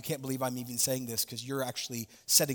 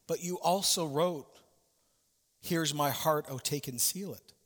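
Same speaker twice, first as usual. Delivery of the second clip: gently. Acted. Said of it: "And she gently said".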